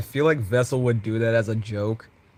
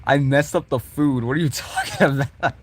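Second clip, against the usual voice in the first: Vessel voice; 5 semitones higher, 4 dB louder than usual. Acted.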